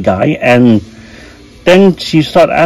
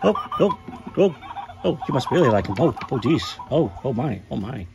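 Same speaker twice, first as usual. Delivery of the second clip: soft breathless giggles fading quieter; laughing softly, getting quieter; giggling through it; 2 semitones lower, 13 dB quieter than usual. Acted. Cuddly plush getting vibrated, giggling.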